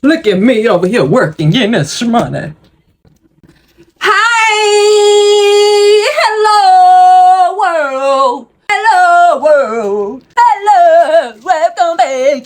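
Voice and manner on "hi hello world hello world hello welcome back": sing-song greeting. Acted. Greeting her YouTube viewers in a high sing-song voice. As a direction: belt out a bubbly hello to the world.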